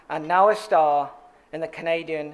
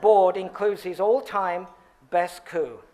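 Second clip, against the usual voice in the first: each word of "board includes his all-time best coup" drawn out slowly; slow it right down to savour "best coup"; a deliberate slow read for the room; slower than usual. Shown as a demonstration. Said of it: "I'm gonna say it slowly".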